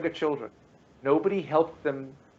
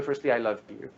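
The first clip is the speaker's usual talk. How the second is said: gentle reassurance; 5 semitones lower than usual. Shown as a demonstration. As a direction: soothe him, tender and calm. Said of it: "Everything's gonna be fine".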